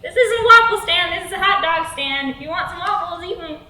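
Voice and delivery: high, loud, panicky protest; hammed-up nervous refusal; flustered refusal. Acted flustered refusal to creep.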